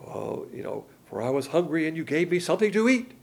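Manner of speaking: sweetly pious reading, a touch mocking; mock nice tone. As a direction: parody a nice church reader. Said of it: "in a very nice tone".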